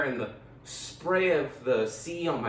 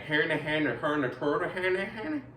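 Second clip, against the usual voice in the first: mock Swedish chef babble; Swedish chef gibberish; slower than usual. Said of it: "like the Swedish chef from the Mafia".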